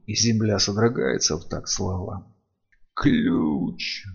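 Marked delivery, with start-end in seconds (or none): 2.9-4.0 a hissed, slurred demand; tongue-tied, barely forming the word; slurred speech. Acted. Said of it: "заплетающимся языком произносит Саладорец".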